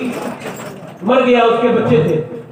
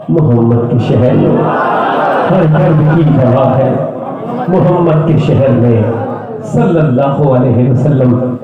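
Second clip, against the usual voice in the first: slow, intoned couplet; voice in his ear; 7 semitones lower, slower than usual. Retold or imitated. Stranger tells the crying orphan, slow intoned verse. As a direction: chant the line slowly like verse. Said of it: "کان میں آ کے کہا".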